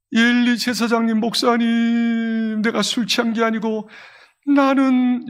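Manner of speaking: lightly acted tearful appeal; tearful confession. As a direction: plead with drawn-out words, a touch of tears. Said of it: "눈물을 툭툭 흘리면서". (울먹이듯 호소)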